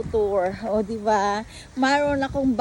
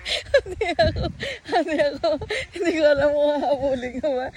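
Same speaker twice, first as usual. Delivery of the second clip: laughing; 4 semitones higher than usual. Real, not acted. Laughing at the chase.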